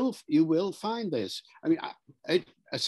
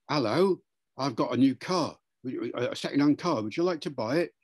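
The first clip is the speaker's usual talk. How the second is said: lightly done London Cockney; a touch of Cockney car seller; Cockney accent. Shown as a demonstration. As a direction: make an easy pitch in mild Cockney. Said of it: "A Cockney accent from London".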